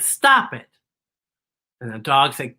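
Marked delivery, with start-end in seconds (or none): 0.0-0.7 fox. Acted. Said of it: "And the fox said".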